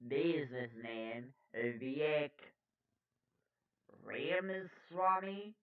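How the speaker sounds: measured anchor delivery with punched words; news read. Acted. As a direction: read it out like a poll report.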